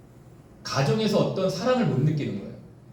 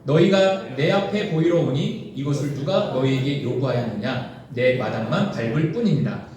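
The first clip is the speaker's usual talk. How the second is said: solemn scripture reading; 3 semitones lower than usual. Acted. Pastor reading Isaiah to the congregation, solemn and measured. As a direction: read God's rebuke with weight.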